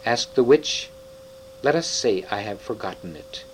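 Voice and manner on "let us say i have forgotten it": grave. Acted. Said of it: "answered Aslan gravely".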